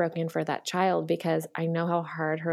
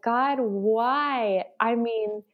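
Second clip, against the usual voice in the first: exasperated plea; 4 semitones higher, slower than usual. Retold or imitated. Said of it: "I was like".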